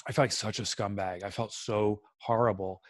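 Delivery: low, soft, near-tearful confession; choked-up and quiet; close to tears. Real, not acted. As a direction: hold back real tears as you admit it. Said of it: "Now, now I'm gonna start crying".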